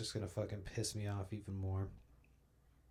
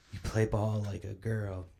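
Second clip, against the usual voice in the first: Sandlot taunt. Retold or imitated. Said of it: "fucking The Sandlot?".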